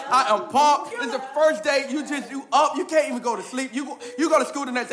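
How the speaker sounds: put-on loud, eager retelling of a kid's first school day; excited kid. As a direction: ham up a pumped kid who can't wait. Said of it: "getting excited for the first day of school".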